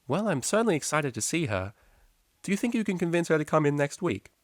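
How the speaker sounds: a teacher gently nudging a student; patient high teacher; teacher's voice. A narrator's reading.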